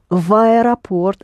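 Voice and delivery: "в аэропорт" run together as one word; V linked to A. Shown as a demonstration. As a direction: glide from "в" straight into "аэропорт", no break. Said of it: "linking V to A".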